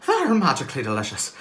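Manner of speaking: imitating the Lucky Charms leprechaun; a hint of an Irish ad voice. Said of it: "Lucky Charms commercial".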